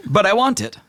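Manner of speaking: high whiny genie; spoiled genie whine. Acted. Genie whining for chandelier.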